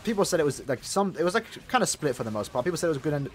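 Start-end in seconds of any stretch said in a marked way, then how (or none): 2.6-3.3 burp slipping into words. Real, not acted. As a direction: talk through a burp. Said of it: "Sorry, I'm burping again".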